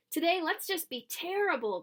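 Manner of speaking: put-on high, loud mischievous kids; gleeful kids. A narrator's reading. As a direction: cheer it like naughty kids. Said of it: "they said".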